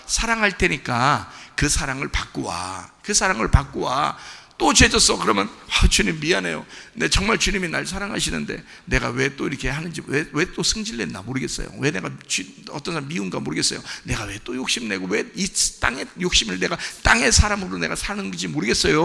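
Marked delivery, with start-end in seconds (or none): 0.1-4.2 loving Lord. Acted. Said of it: "그 주님이". 5.7-19.0 soft, contrite murmur to the Lord; apologetic prayer. Acted. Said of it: "라고 하면서 그냥 따라가시면".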